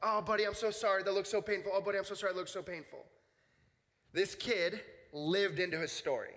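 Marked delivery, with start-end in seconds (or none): 0.0-3.0 a hint of a gushing sympathetic leader; mildly mimicked over-sorry adult; pitying leader. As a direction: lightly mimic overdone pity. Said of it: "what this kid had heard was".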